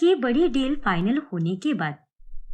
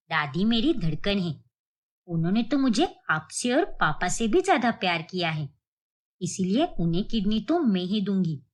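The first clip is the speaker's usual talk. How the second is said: earnest daughter; 4 semitones lower than usual. Acted. Daughter insists on donating kidney.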